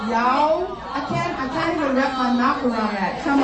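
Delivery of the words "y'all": "y'all" tried again in a Southern American drawl, rising. Shown as a demonstration. Trying "y'all" again in Southern American for the congregation. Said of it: "did that sound American?".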